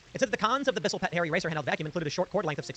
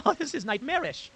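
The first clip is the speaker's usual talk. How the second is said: slow, high, laughing dismay; stretched-out words through a high laugh; appalled amusement; 8 semitones higher, slower than usual. Real, not acted. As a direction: laugh in drawn-out disbelief. Laughs at the creepy reply.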